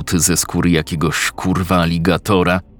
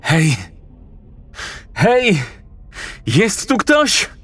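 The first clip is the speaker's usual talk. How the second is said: calling out; 13 semitones higher, slower than usual. Acted. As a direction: shout for anyone nearby. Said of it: "zawołał".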